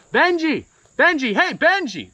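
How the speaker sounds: high calling shout; yelling across lake. Retold or imitated. John calling to Benji out on the lake, shouted high. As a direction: call out across the water. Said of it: "he starts yelling out".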